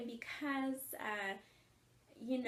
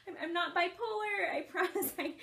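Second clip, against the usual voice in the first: higher-pitched protest through laughter; retold laughing; 6 semitones higher, 3 dB louder than usual. Mother assuring her family she's not bipolar, retold laughing. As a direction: giggle through a reassurance. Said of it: "that's why I was laughing".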